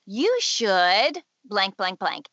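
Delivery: slow, drawn-out "You should"; inner critic's voice. Acted. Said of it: "if you hear voices in your head".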